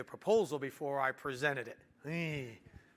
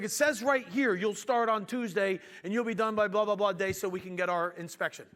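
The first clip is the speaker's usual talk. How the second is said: louder, higher imitated client; impatient insistence; 3 semitones higher, 5 dB louder than usual. Client reading start date to confused contractor, loud retold impatience. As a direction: insist on the paperwork, emphatically.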